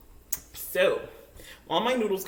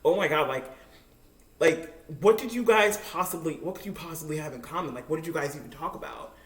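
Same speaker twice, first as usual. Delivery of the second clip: mock shocked coworker. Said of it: "she was, like, shocked".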